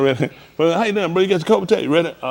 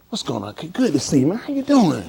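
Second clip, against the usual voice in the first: positive greeting; 4 dB quieter than usual. Shown as a demonstration. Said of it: "I'm gonna show you positive energy".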